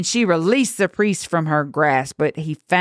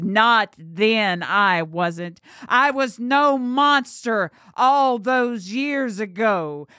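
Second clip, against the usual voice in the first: higher, rising anger; indignant denial; 6 semitones higher, slower than usual. Acted. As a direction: protest it, stretching the words out. Girl's enraged denial to priest.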